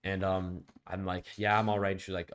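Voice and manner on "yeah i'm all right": loud, jolted "yeah, I'm all right"; louder, startled reassurance; snapping awake. Retold or imitated. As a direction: blurt it like you just shot upright. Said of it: "I literally shoot the fuck up".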